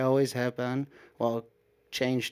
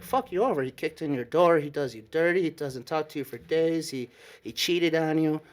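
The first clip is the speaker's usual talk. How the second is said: higher-pitched, mildly indignant comeback; indignant retort; 3 semitones higher than usual. Retold or imitated. Reacting to the ex's text about the other guy, indignant. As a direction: list his offenses in raised pitch, incredulous.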